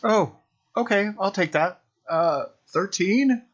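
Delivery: high, loud, slowed thrilled reaction; excited squeal. Real, not acted. Player excited by another high roll, high loud squeal. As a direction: squeal with glee at the result. Rolls high while falling.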